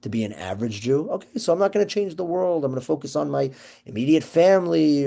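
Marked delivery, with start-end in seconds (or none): 1.1-5.0 higher, lighter voice mocking the excuse; a lightly put-on shrug of a complacent person; mock complacent Jew. Mocking the average Jew's excuse.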